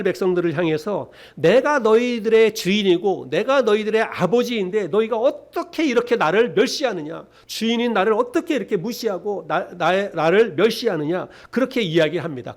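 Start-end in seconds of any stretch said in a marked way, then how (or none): 1.4-11.3 God rebuking his people, voice a bit raised; mildly indignant reproach; reproachful. Acted. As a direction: demand an answer as a wronged father and master. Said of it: "그렇게 책망하는 성경이".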